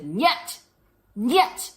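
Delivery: a hint of a Russian-accented niet, rising each time; mock Russian refusal. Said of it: "say no in Russian".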